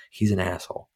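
a hushed jab under the breath; whispered insult. Real, not acted. Podcaster whispering his dislike of the movie villain. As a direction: whisper it as a snide aside. Aside insult about the executive.

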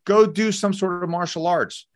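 high-pitched, emphatic urging; impassioned exhortation. Real, not acted. Urging men to take up martial arts, impassioned exhortation. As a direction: push them to go and act.

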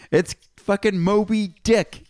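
high, drawn-out mock outburst; frustrated listener. Podcaster mimics listeners talking back to the show, high mock frustration. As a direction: imitate a listener calling out, high and slow. Voicing listeners calling out to themselves.

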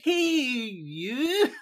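very high, drawn-out, laughing greeting; hammed-up delight covering a forgotten name; over-cheery greeting.

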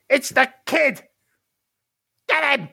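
high troll voice sounding the alarm; troll's alarmed command. Acted. Blue troll spotting the intruder at the door, calling out. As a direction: call the other troll to attack. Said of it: "the blue troll's gonna turn".

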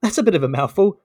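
teacher covering slight discomfort; uneasy teacher. Acted. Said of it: "sweating a little bit at his response".

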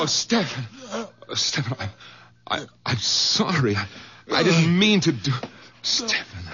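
high, shaken apology; horrified at what he did; breathless remorse; remorseful. Acted. After choking, remorseful apology.

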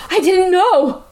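hammed-up "who, me?" voice; mock innocent girl. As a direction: lightly mimic her clueless excuse. Mocks whiny girl in retold quarrel.

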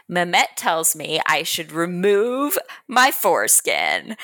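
mock-loud, slow declaration; imitating loud duke. Duke telling Bridget in front of the workers, mock loud. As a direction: announce it slowly for all to hear. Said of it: "Can you lower your voice?".

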